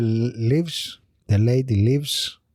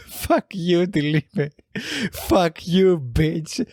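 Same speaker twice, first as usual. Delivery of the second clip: higher, mock furious cursing; retold insults; 8 semitones higher than usual. Other girl cursing at the lady, mock furious. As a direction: hurl the insults, hammed-up. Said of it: "the other girl was like".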